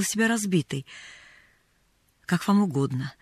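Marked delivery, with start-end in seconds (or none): 2.2-3.1 cool, low reply; cold and curt, held back. A narrator's reading. Mrs. Carew answers the poor woman, coldly. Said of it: "ответила она холодно".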